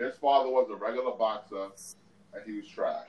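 talking while eating; mouth full. Real, not acted. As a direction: speak through a mouthful. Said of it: "I'm eating right now".

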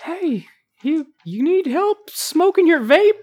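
a sketchy stranger offering help with a vape; creepy vape guy. Acted. Sleazy character offering vape help.

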